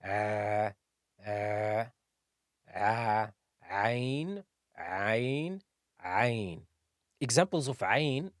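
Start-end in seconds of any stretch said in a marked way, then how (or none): 0.0-6.6 "Ain" as a tight, voiced squeeze from mid-throat; Ain sound. Shown as a demonstration. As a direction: press "Ain" out from the middle of the throat. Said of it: "You can feel the vibration in the middle of the throat".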